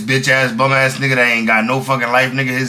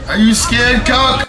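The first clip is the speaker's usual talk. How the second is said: much higher mock taunting voice; 10 semitones higher, 3 dB louder, slower than usual. Imitating Lush taunting the scared guy. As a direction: taunt him in a squeaky voice. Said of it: "acted taunt".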